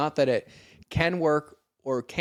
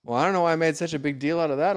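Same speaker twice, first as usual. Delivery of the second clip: imitating friend; 3 semitones higher, 4 dB louder, faster than usual. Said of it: "and you're like".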